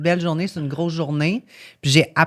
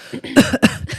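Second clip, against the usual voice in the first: throat-clearing cough; 8 semitones higher than usual. Real, not acted. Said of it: "un chat dans la gorge".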